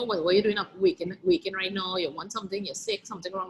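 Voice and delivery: a hint of a nosy old lady prying. Mother fretting at her daughter, mildly fussy nosy old lady. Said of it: "nosy old lady asking the daughter".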